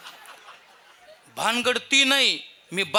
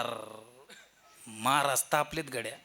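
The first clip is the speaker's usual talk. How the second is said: much softer low mutter; timid aside; 8 semitones lower, 9 dB quieter, slower than usual. Retold or imitated. Father-in-law quietly warns about the angry preacher. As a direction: hush it, afraid he'll hear.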